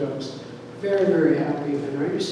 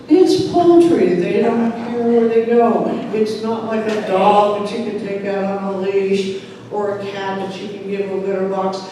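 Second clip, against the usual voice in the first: exasperated mother; 3 semitones higher, 6 dB louder than usual. Retold or imitated. Mother arguing back.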